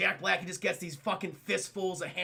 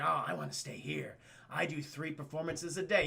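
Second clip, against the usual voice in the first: subdued reply; 3 semitones lower, 5 dB quieter than usual. Retold or imitated. Deluded actor's line, retold.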